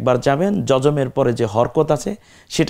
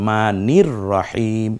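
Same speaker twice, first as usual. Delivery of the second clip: slow recitation; slower than usual. Shown as a demonstration. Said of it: "এক আলিফ টেনে বলি".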